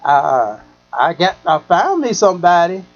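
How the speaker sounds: a lightly voiced lady friend bragging; imitating the woman. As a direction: voice her gushing about her new man. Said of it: "She was like".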